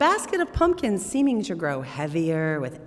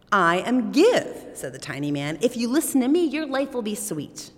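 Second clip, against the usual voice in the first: tiny man voice; 6 semitones higher, 5 dB louder than usual. Acted. Tiny man Give speaks.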